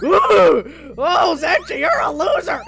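sing-song playground jeer; mocking kid. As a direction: tease like a bratty child. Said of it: "some little kid screams".

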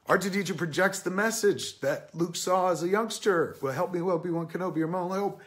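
high, emotional retelling on the verge of tears; close to tears. Real, not acted. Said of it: "This is gonna make me cry".

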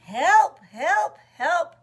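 high, loud rising calls; hammed-up high distress call; storybook cry for help. A narrator's reading. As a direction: cry out for help like a stuck little truck. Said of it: "cried Little Blue Truck".

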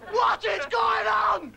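slow, drawn-out outraged shout; exasperated rant. Acted. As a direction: stretch each word in mild mock outrage.

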